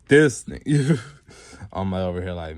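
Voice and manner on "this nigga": high, loud retold exclamation; mock exasperated outburst. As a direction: blurt it out loudly in mock disbelief. Same retold reaction, suddenly blurted.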